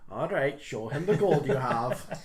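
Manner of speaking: patient parent, slow and firm. Acted. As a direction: talk like a mom to her kid. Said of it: "full parent style".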